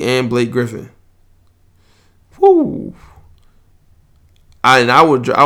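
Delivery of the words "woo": excited whoop. Real, not acted. Excited about a rival's stacked team.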